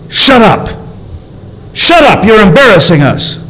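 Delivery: high, sharp mock crowd telling him to hush; hushing the blind man, embarrassed crowd. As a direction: snap shut up like an annoyed crowd. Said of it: "the crowd's like, literally".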